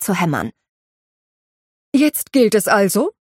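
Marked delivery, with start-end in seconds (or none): 1.9-3.1 bracing herself. Acted. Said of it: "sagte Afra Haber und straffte die Schultern".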